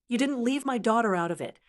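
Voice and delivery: quick, sharp retort, a bit fast; mild snap. Acted. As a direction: shoot the line back fast at the con man. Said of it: "I snapped".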